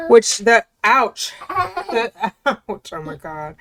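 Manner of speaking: laughing out an ouch; giggling while being poked; being tickled. Real, not acted. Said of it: "tickling me from behind".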